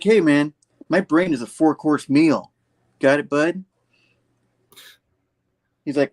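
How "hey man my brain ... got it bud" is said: sarcastic. Retold or imitated. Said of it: "sarcastic with him".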